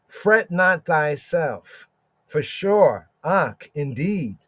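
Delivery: slow emphatic reading. Shown as a demonstration. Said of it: "So the Hebrew is more".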